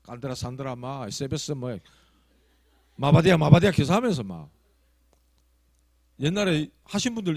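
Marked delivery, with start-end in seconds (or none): 0.0-3.7 imitating tongues. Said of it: "방언하는 애들이 있더라고".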